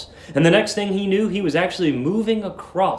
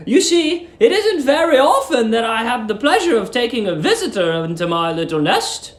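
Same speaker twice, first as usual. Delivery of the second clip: sweet landlady; 8 semitones higher than usual. Acted. Landlady luring the young lodger, high sugary coo. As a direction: coo at him like a doting landlady.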